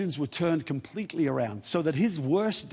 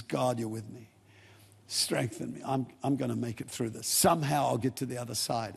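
soft prayer; 5 semitones lower, 5 dB quieter than usual. Acted. David's lonely prayer, voiced softly.

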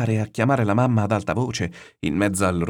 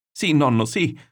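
put-on high, loud boy's answer; raised, pitched-up child's assent; frightened reply; 7 semitones higher, 4 dB louder, slower than usual. A narrator's reading. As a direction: cry back anxiously to grandfather. Frightened boy answers shouts in storm.

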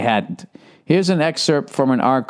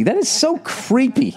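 laughing; 11 semitones higher than usual. Real, not acted. Laughing at her snooping.

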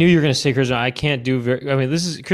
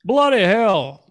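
high mock-English exasperated dad; comic British scolding; English Hank Hill; 10 semitones higher than usual. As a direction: curse in a pitched-up English accent. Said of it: "do an English accent".

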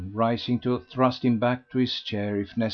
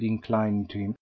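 plain reading voice

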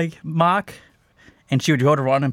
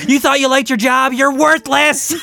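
insulting parrot; 11 semitones higher, 5 dB louder than usual. Pretend. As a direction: sneer it down like a mean bird.

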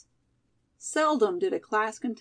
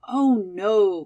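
a louder, flustered "Oh, no"; embarrassed cry; 7 dB louder than usual. A narrator's reading. Molly turning down the presidency, a louder embarrassed cry. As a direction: blurt it out, caught off guard and embarrassed. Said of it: "cried Molly, flushing with embarrassment".

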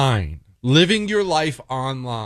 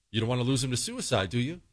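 much softer, quick insinuating mock counselor; hushed, pointed warning; 3 semitones lower, 11 dB quieter, faster than usual. Counselor pressuring a hesitant parent, hushed quick warning. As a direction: drop the volume and press the parent.

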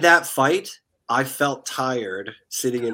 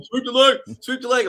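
imitating a panicked coach; 11 semitones higher, 5 dB louder than usual. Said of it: "He's like".

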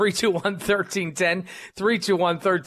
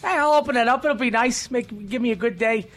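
acted naive delight; 5 semitones higher than usual. Acting out naive waking reaction.

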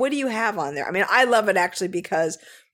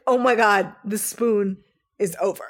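mock shock; 3 dB louder than usual. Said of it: "the look on our faces".

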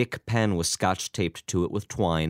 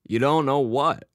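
put-on higher, louder frail old man; old father voice; 7 semitones higher, 4 dB louder than usual. A narrator's reading. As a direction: speak as a wheezy old dad.

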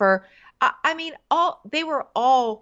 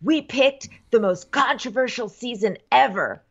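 mock host announcement; 3 semitones higher than usual. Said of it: "his whole beginning is like".

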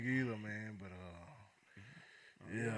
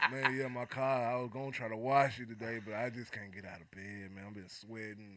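stuffy nose; 5 dB quieter than usual. Acted. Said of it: "you sounding bad".

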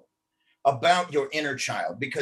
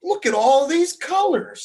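giggling; 12 semitones higher, 8 dB louder than usual. Acted. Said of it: "Samantha giggled".

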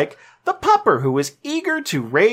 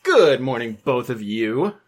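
put-on reading voice; 7 semitones lower than usual. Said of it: "I just wanted to read it that way".

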